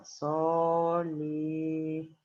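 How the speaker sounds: «Solidi-» muy lento, sílaba por sílaba; dictado silabeado. Real, not acted. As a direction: estira cada sílaba de «Solidi-» al ritmo de la escritura. Dicta mientras lo escribe. (dictando lentamente mientras escribe)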